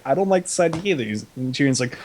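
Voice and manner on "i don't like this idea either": lightly imitated character, pitched higher; Missandei. Missandei echoing Grey Worm's objection, lightly imitated higher voice. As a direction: chime in with a higher retold objection. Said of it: "Missandei's like".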